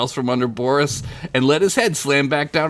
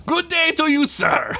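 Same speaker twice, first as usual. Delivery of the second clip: high, theatrical parting call; indignant vampire farewell; 11 semitones higher than usual. A narrator's reading. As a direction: proclaim a huffy goodbye. Vampire storms off in story.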